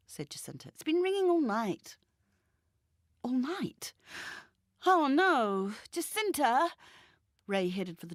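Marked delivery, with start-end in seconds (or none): 0.7-2.0 higher, louder insistent woman's voice; Jacinta pleading. Acted. Jacinta dismissing the phone. 3.2-6.7 higher, louder dismayed cry; Ray alarmed. Acted.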